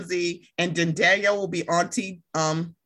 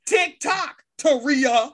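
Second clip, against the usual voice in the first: mock impatient chiding; 5 semitones higher, much slower than usual. Voices Corey hurrying Toria along.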